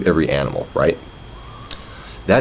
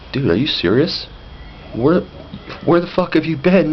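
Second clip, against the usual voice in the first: exasperated disbelief; 9 semitones higher than usual. Retold or imitated.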